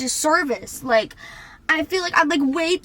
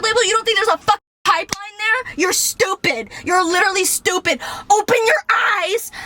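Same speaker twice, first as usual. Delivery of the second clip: raised, fast, scornful; exasperated rant; 2 semitones higher, faster than usual. Real, not acted. Scolding viewers who can't see the pipeline, scornful rant. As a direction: scold them for not seeing it.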